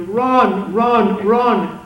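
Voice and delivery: retold cry of run, building each time; retold yell. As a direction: yell for everyone to flee. Crowd yelling to flee, retold.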